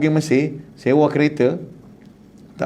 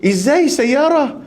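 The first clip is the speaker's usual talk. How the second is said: Arab man asking; 8 semitones higher, much slower than usual. Retold or imitated. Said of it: "Arab tu pun nak kenalkan dia".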